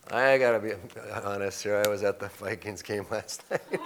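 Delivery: raspy, worn-out voice after shouting; hoarse voice, shot from cheering; hoarse from yelling. Real, not acted. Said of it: "my voice is a little shot from yelling".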